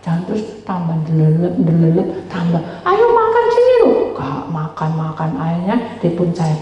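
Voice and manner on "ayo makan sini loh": high, loud coaxing call to eat; mother calling. Retold or imitated. Mother calling her child to come eat, high coaxing call. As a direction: sing out the call like a mother at mealtime.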